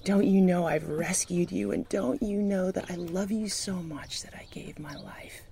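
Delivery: whispered voice of God. Retold or imitated. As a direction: breathe it like a still small voice. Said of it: "that's when God said".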